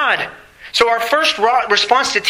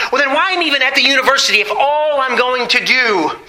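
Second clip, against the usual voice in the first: lightly voiced daughter, higher pitch; raised pitch, mock protest; imitated protesting daughter; 5 semitones higher than usual. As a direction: mimic a daughter's exasperated question. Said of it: "and she says".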